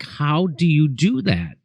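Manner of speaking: slow, drawn-out retold wonder; mock amazement. Comic retelling nightly pleas to the magician for his secret, slow mock amazement. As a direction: stretch the question out in lightly acted bafflement.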